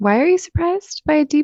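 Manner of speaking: incredulous, high, loud, disbelieving tone.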